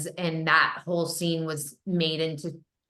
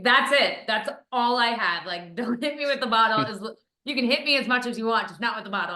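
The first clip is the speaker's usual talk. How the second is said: lightly voiced insistent co-star, a bit higher; mock earnest pleading, quick in the middle; co-star insisting; 5 semitones higher than usual. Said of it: "He's like".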